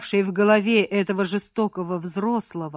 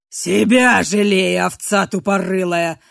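contemptuous snarl; 5 dB louder than usual. Acted. Contemptuous insult.

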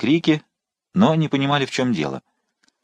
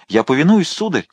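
higher, urgent submission; hasty exclamation; 6 semitones higher than usual. A narrator's reading. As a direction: give in quickly. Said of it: "воскликнул Бруссель". (поспешно воскликнул)

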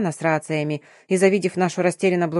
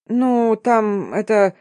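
very slow, hesitant mumble; mumbling; 2 semitones higher, much slower than usual. A narrator's reading. Darina to the curator, slowly mumbling an excuse. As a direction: drag the words out, lost for words. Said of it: "начала мямлить Дарина".

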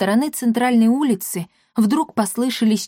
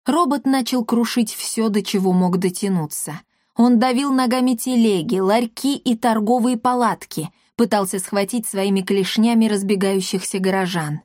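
ordinary delivery, nothing marked

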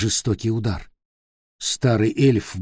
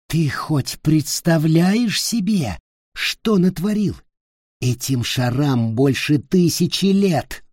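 angry scolding; 5 semitones higher than usual. Acted. Angry Ulfger scolding Peter.

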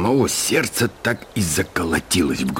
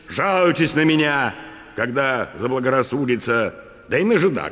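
higher, commanding address to the crowd; proud landowner; 7 semitones higher than usual. A narrator's reading. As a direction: announce yourself with authority. (надменная речь помещика)

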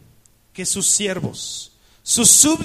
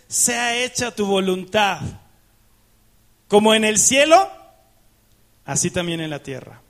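proclaimed loudly; 4 dB louder than usual. Shown as a demonstration. Preacher announcing the next point to the church, loud proclamation. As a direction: proclaim the verse, swelling on cielo. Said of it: "el siguiente punto es".

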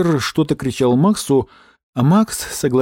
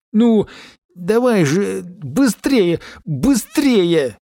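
high, pleading hurry-up; urgent urging; 6 semitones higher, much slower than usual. A narrator's reading. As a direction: urge the scooter on, higher. Urging the stalled scooter.

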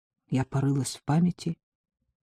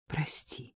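breathy whisper; whispered sorry; 2 semitones lower, 15 dB quieter than usual. Acted. Anya to Henrietta, whispering an apology. Apology to pupil, lost in thought.

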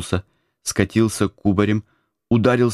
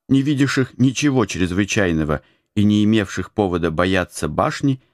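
ordinary delivery

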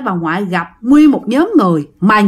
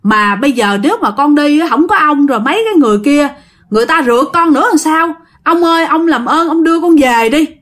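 scared pleading; 3 semitones higher than usual. Retold or imitated. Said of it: "Bà ngoại mới nói rằng".

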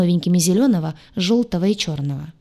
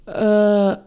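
loud, bewildered "uhh"; baffled drawn-out hum; stuck on a puzzled "er"; bewildered mumbling; 3 semitones higher, 5 dB louder than usual. A narrator's reading. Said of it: "сменился недоумённым мычанием".

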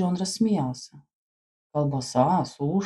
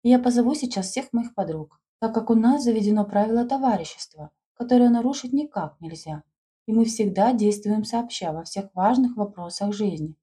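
put-on high, earnest young girl; eager schoolgirl; 3 semitones higher than usual. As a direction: speak like a keen schoolgirl. Schoolgirl explains eagerly to friend.

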